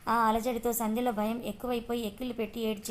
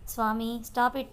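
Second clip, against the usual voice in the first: sudden shout; much slower than usual. Acted. Arjun snapping at teasing Siri during a call, sudden shout. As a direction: snap it out to make her stop. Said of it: "గట్టిగా ఒక్కసారిగా అరిచాడు".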